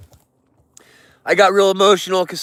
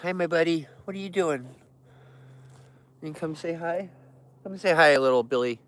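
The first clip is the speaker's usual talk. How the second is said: much softer, gentle coaxing; soft bear talk; 7 dB quieter than usual. Real, not acted. Talking gently to a bear cub named Billy, very soft. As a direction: hush down to sweet-talk an animal.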